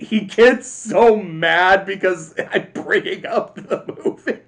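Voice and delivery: real laughter breaking into the sentence; laughing. Real, not acted. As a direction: crack up while telling it. Laughs while teasing about Clay.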